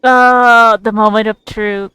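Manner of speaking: loud eager anticipation; dramatic build-up to the answer; excited. Real, not acted. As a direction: lean in for the big reveal. Streamer awaits god's answer.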